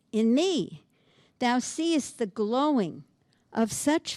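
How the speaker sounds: slow, measured verse reading; slow solemn recital; poem recital. Acted. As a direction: weigh each image of the dying fire. Reading third quatrain.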